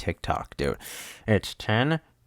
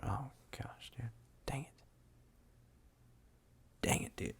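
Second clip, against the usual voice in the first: much softer whispered frustration; annoyed whisper; 3 semitones higher, 18 dB quieter than usual. Real, not acted. Host whispering at his own editing mistake.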